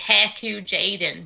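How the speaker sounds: put-on Southern US drawl; mock down-South pronunciation, name drawn out; Southern accent. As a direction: say it like a joking Southerner. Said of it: "Down the south here, we say".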